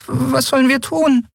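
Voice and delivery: put-on a frightened child hardly daring to ask; scared whisper. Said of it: "Nelens ängstliche Stimme war kaum mehr als ein Wispern".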